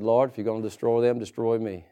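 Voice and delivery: low, soft plea to God; a hushed, low intercession; Moses pleading. Retold or imitated. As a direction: sink the voice down and beg.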